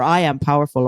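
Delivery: "I" in "I am powerful" hit firmly, with a falling end; a firm affirmation that lands; stress on I. Shown as a demonstration. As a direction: own it, starting from "I". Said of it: "You've gotta have a bit more conviction".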